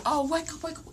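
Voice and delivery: high-pitched mock wake-up call; imitating urgent niece. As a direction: mimic a niece pestering you awake. Niece's waking call retold again.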